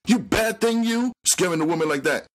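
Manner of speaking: put-on high old-woman voice, fast at the end; old auntie rattling off a scolding. A narrator's reading. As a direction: scold a pet mouse like a fussy aunt. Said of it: "the old woman scolded".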